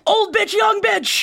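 high, loud mock yell; shouted taunt. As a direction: belt it out like a chant. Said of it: "calling out the character".

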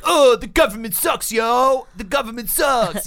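high shouted protest rant; mock rock singer. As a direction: yell it like a mock punk frontman. Mocking a rock band.

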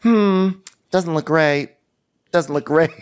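high, slow, doubtful hum; imitating the planner. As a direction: drag it out like an unimpressed planner. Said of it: "She's like".

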